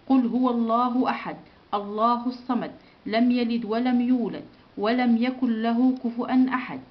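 steady chanted recitation of the Fatiha; Quran recitation. Shown as a demonstration. Teacher recites Al-Fatiha with pupils, chanted. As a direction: recite it evenly for the class to follow.

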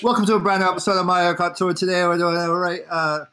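lightly imitated English-accented streamer; a hint of a British video host; Shiny impersonation. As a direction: open the episode as a mimicked English streamer. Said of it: "I will do a shiny impersonation now".

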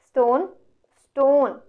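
STONE held as a stressed beat; stressed syllable. Shown as a demonstration. Teacher scanning a line of verse for students, STONE stressed. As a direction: STONE said twice, firmer and falling the second time.

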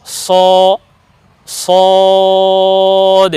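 স alone, then সদ held very long; distinct saad. Shown as a demonstration. Teacher builds the letter up, স then drawn-out সদ. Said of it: "উচ্চারণে একটু পৃথক হবে".

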